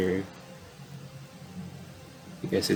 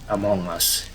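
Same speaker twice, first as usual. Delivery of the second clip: mock urgent newsreader; breaking news read. Reads breaking news bulletin.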